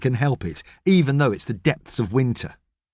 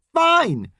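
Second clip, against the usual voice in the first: sulky fine. A narrator's reading. James sulkily gives in.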